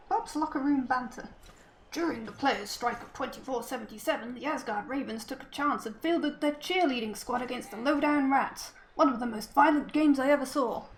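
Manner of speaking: a lightly voiced cartoon brute; ogre voice. Shown as a demonstration. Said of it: "That's my attempt at an ogre voice".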